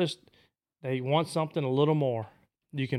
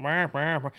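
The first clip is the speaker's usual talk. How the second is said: boss hen call. Shown as a demonstration. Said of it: "come to a boss hen".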